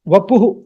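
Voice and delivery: vapuh ending on h alone; actual visarga pronunciation. Shown as a demonstration. Teacher corrects to actual form, vapuh with bare h. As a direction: finish vapuh without an echoed hu.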